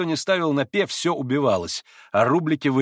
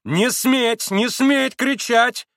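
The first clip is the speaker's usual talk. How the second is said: high, loud, drawn-out order; commanding cry; 11 semitones higher, 5 dB louder, much slower than usual. A narrator's reading. Grushenka silencing the shouting Poles, high cry. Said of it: "крикнула Грушенька".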